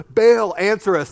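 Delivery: loud cry to Baal; shouted. A narrator's reading. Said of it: "they shouted".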